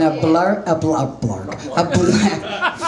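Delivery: stumbling slowly over the word; tongue-tied. Real, not acted. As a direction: trip over the word, laughing. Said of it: "fuck it".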